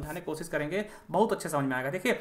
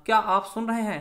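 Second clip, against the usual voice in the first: क्या pushed up and louder; stress on क्या; 3 semitones higher, 4 dB louder than usual. Shown as a demonstration. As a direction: lean hard on the word क्या. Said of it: "उस शब्द पे जोर दिया रहा है".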